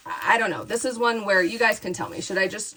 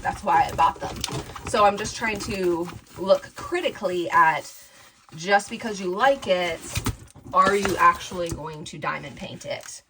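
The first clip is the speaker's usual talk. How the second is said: ordinary talk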